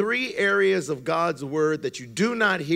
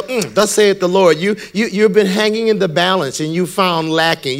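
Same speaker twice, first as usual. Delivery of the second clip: mock prophet; 7 dB louder than usual. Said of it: "When they come up to you and go".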